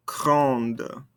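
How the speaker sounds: "grande" with an audible N and D at the end; sounded ending consonants. Shown as a demonstration. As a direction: close "grande" on a released D. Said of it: "makes us pronounce those ending consonants".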